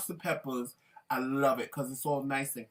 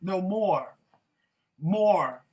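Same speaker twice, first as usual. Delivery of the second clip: eager demand; 3 semitones higher, 7 dB louder, slower than usual. Retold or imitated. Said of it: "I'll be like".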